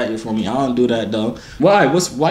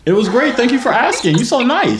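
mock sweet; 8 semitones higher than usual. Mock-sweet reply to overheard question.

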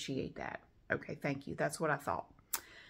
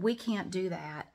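imitating slow lady. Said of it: "she said".

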